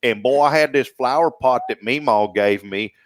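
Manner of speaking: light Southern country storytelling twang; country accent. Pretend. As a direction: tell it like a country porch tale. Demonstrates the country word in tale.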